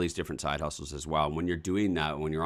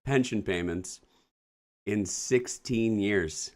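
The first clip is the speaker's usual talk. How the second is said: dismayed disbelief; 5 semitones higher than usual. Real, not acted. Dismayed at early retirement letter.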